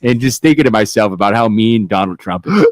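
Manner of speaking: put-on a laid-back Canadian accent; easygoing Canadian accent with a laugh. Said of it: "I want that voice".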